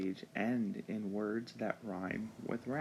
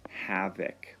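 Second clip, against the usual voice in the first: breathy whisper, hushed and secret; whispered vocabulary word; 2 semitones lower than usual. Shown as a demonstration. Teacher introduces a vocabulary word.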